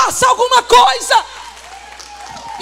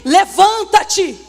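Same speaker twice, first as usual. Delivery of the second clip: fiery preaching. Acted. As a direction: preach it hard to the congregation. Preaching at full force.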